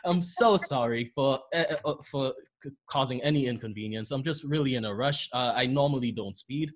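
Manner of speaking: lightly British, polite apology; put-on British accent. Driver excusing himself to the officer, lightly put-on British accent. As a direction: lean gently into a British accent, stumbling apologetically. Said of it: "to sound British, right".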